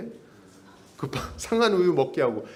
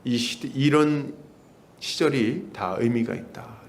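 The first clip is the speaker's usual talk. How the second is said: slow divine word; 4 semitones lower, slower than usual. Retold or imitated. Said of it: "하나님께서 말씀 주셨죠".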